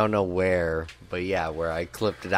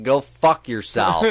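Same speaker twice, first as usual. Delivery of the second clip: laughing retort; 5 semitones higher, 7 dB louder than usual. Retold or imitated. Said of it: "we're like".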